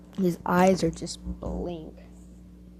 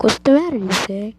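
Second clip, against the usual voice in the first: fake concern; 3 semitones higher, 4 dB louder than usual. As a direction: play worried, but it's an act. Fake concern toward Issei.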